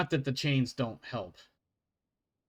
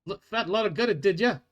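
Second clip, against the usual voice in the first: dwarf guard lecturing. Acted.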